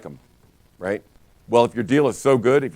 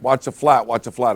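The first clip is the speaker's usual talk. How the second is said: retold yell; 4 dB louder than usual. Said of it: "I yell at the outside linebacker".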